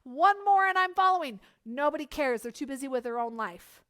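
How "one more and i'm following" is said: mock counting follower.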